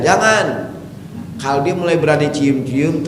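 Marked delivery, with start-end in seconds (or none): 0.0-0.7 higher mock yell of no; hammed-up shout of Jangan. Shown as a demonstration. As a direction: cry out jangan in mock alarm. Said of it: "ibu teriak aja".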